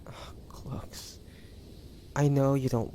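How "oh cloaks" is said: breathy, faint whisper of his name; dying whisper. Acted. Dying girl saying farewell.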